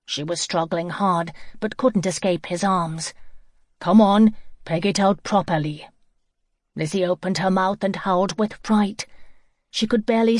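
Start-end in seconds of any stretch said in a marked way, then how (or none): 3.8-5.9 stern order. Acted. Man orders her.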